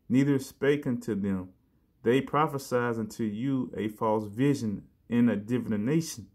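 measured scripture read. Acted. Preacher reading scripture to the brothers, measured. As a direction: read the verses with weight.

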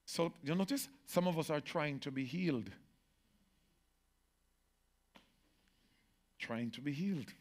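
quiet. Real, not acted. Quiet aside.

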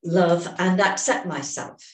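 slow, deliberate setup statement, every word placed; measured tapping affirmation; slow affirmation for repeating. Shown as a demonstration. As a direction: say it so they can echo you. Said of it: "start repeating after me".

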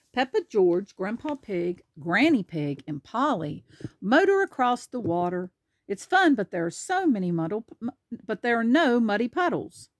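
lively picture-book narration; animated storybook reading; reading to children. Acted. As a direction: read it out clearly for a small child. Reads picture book aloud.

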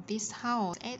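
"house" finished on a clear hissed s; teacher modelling "This house" with its s ending; S ending sound. Shown as a demonstration. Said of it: "S ending sound".

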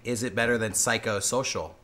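dramatic low voice. Pretend. Close-up plea continues.

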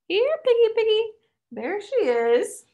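high sing-song calling, dragging out the last words; taunting call. Acted. Drunk pretties hunting Tally, calling in high sing-song taunt. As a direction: call her like a pet you are hunting.

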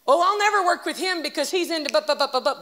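fast, slippery mock preacher excuse; snake voice. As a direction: imitate a smooth, sly snake voice. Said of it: "That's a snake voice".

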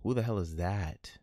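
hushed whisper. Acted. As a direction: breathe the question with no voice. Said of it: "repeats in other voices".

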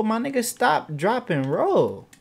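high then drawn slow, word by word; slow spelled out. Real, not acted. Gamer slowly repeating the drill to his dumb sim.

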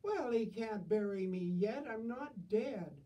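indignant. Acted. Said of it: "old lady indignant".

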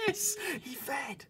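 loud, high whispered cheer; excited. Real, not acted. Celebrating the chick feeding, an excited whisper-cheer. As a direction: burst out with hushed glee. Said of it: "I mustn't be too excited".

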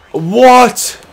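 high, loud incredulous "What?"; real outraged shout; shouted disbelief. Real, not acted. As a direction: yell in shock at the screen. Disbelief at the game.

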